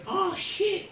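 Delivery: very high-pitched cry, retold; comic dismay. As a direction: squeal it in mock horror. Mum dismayed, covered in poo.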